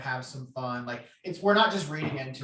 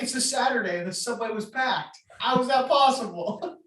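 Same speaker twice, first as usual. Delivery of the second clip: high, incredulous mock voice, pitched up; imitating the friend; 8 semitones higher, 3 dB louder than usual. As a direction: ham up his disbelief at the packed subway. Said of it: "It'll be like".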